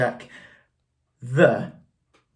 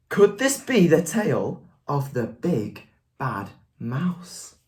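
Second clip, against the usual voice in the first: lively, expressive story voice; expressive picture-book reading; reading to children. A narrator's reading. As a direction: read it aloud to a class.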